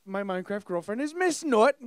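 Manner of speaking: high, loud pirate voice; pirate accent. Acted. Gamer presenting his family in character, pirate accent. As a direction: introduce the crew like a hammy pirate. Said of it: "I always do a pirate accent".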